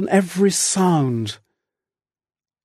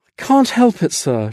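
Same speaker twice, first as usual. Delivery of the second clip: stolid; 4 semitones higher than usual. Acted. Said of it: "she said stolidly".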